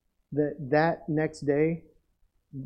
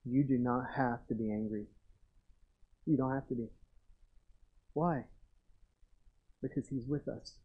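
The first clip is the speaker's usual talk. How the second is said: quiet confident reassurance; 2 semitones lower, 8 dB quieter than usual. Shown as a demonstration. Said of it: "say this with confidence too".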